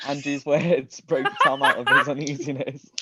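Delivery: giggling through the narration; can't keep a straight face; reading on through a fit of laughter; laughing while reading. Real, not acted.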